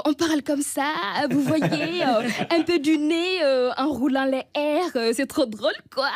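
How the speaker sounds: light mock French accent, slightly nasal; imitated European French accent. Shown as a demonstration. Comedian shows how Ouagadougou mocks the French, in mock European French accent. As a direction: parody a European French accent through the nose. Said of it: "on imite l'accent européen".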